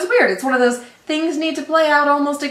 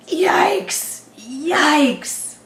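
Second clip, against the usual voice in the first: mock dread; 3 semitones higher, much slower than usual. Dread about next episode.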